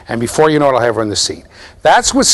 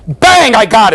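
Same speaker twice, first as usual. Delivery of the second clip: sudden shout; 8 semitones higher, 6 dB louder, slower than usual. Acted. Teacher catches student behavior.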